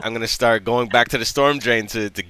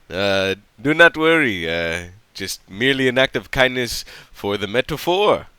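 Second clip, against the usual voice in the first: Yamdo, modest helper; 3 semitones lower, 4 dB quieter than usual. Acted. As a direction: reassure her solemnly in careful phrases. Player voices Yamdo reassuring woman.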